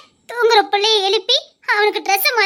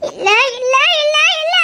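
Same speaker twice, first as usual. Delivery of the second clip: distraught refusal; 7 semitones higher than usual. Acted. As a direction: refuse him, near hysteria. (பதற்றத்துடன் மறுப்பு)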